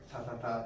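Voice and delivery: "ta, ta, ta" with the tongue far forward, crisp; tongue "ta" right behind the teeth. Shown as a demonstration. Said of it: "ta is really far forward".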